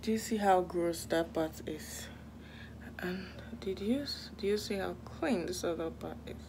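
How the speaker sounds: hushed whisper; whispered tour of the dirty corner. Real, not acted. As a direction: whisper it like showing a secret. Showing the room while cleaning.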